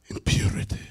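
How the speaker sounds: near-voiceless murmur to the congregation; hushed emphasis. Real, not acted. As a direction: let it sink in with a solemn whisper. Hushed repeat of the key phrase.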